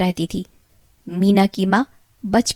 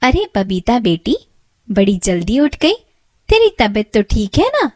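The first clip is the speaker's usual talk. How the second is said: doting, sugary mother to her own daughter; loving stepmother, a touch louder; fond mother; 4 dB louder than usual. Acted. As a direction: coo over her darling girl. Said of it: "उससे बड़े प्यार से कहती है".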